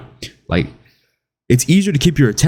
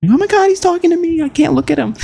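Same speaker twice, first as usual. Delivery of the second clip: put-on high falsetto flustered girl; nervous girl. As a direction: squeal like a shy smitten girl. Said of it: "a girl who's nervous".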